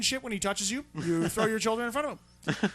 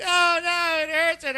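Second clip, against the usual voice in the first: mock scream; 6 semitones higher, 5 dB louder than usual. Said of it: "And she's screaming".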